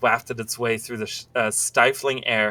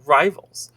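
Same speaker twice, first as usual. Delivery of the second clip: "rivals" punched louder, lifting at the end; emphatic RIVALS; 3 semitones higher, 6 dB louder than usual. A narrator's reading. Lover warning her secret partner about their gangs, emphasis on "rivals". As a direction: lean hard on "rivals". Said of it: "her emphasis on the last word".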